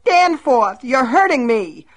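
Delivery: high, loud frightened cries; pained cries. Acted. Myrtle cries out to Danforth while he drags her, high pained yelps. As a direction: yelp in pain and fear.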